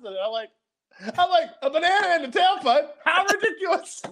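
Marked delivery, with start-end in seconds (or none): 1.6-4.0 very high, hammed-up incredulity; squeaky mock astonishment; feigned disbelief. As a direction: play innocent, voice way up. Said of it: "I had to play it off".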